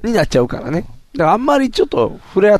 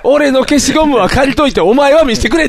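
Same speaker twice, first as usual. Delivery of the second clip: lightly acted schoolboy retort, rising end; imitating a kid doing comedy; mock kid's tsukkomi; 9 semitones higher, 3 dB louder than usual. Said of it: "っていうの". (小学生のツッコミをまねた軽い声)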